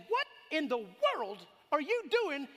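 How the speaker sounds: loud, high startled call; preacher shouting at a roadside stranger; shouted question. Retold or imitated. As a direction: yell it out the window. Calling out to stranger at night.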